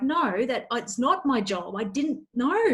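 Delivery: mildly protesting, pitch lifting at the end; mock resistance. Acting out a staff member resisting tough feedback, mildly protesting. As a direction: push back a little, imitating a resistant employee. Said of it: "because they're resisting and they're like".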